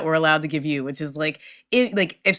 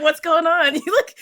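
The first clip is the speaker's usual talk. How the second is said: put-on high child voice; 11 semitones higher than usual. Kids asking princess.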